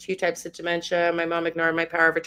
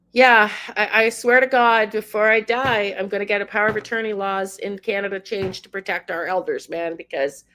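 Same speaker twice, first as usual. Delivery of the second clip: rising angry rant; 4 semitones higher than usual. Real, not acted. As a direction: vent the fury, climbing with each name. Ranting about police and societies.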